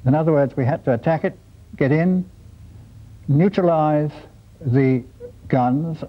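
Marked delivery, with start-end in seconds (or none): 3.3-6.0 neutralize set apart by pauses; emphasize neutralize, pausing before the guns; stress on neutralize. Real, not acted. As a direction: give the word neutralize deliberate weight. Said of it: "I emphasize that word neutralize".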